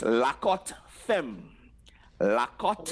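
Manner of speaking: slow whispered "La Cote Femme"; teacher whispering the patois name; whispered pronunciation. Shown as a demonstration. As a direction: breathe "La Cote Femme" slowly, no voice. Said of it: "Why femme?".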